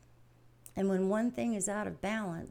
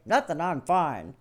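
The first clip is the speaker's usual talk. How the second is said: husband's brush-off; 7 dB louder than usual. Retold or imitated. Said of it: "he's got several different tones of voice".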